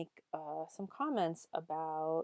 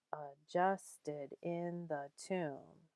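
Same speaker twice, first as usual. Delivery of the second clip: "adjusted in the tomb" very slow, beats on JUST, IN, TOMB; iambic stress; much slower than usual. Shown as a demonstration. Teacher scanning for students, slow iambic "adjusted in the tomb". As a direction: scan "adjusted in the tomb" short-long, short-long. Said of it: "that's iambic".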